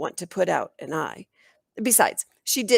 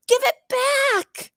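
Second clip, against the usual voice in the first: high, loud, drawn-out cry; tearful yell; 5 dB louder, slower than usual. A narrator's reading. Little girl yelling at the bully who took her notebook. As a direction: scream it through tears. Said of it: "yelled Coco through her tears".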